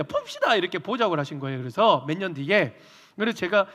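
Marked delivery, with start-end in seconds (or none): 0.0-0.6 very high, sharp call; mock stern elder; abrupt summons.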